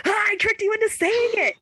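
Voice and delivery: stuffy, blocked-nose voice; talking through a blocked nose. Real, not acted. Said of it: "I can't breathe through my nose".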